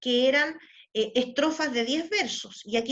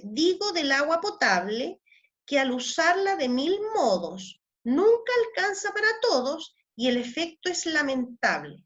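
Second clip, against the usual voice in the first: reciting a décima in verse rhythm; poem reading; 2 semitones higher than usual. Acted. Reads a décima aloud. (leyendo una décima en voz alta)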